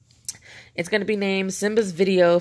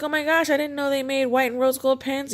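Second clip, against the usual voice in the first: excited gasp; 9 semitones higher than usual. Retold or imitated. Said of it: "I was like".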